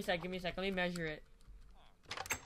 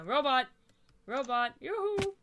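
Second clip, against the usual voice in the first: calling out; 3 semitones higher, 4 dB louder, slower than usual. Real, not acted. Calling the robot mob.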